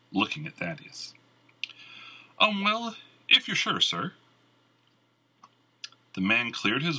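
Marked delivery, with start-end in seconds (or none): 2.4-4.1 nervous bard. A narrator's reading.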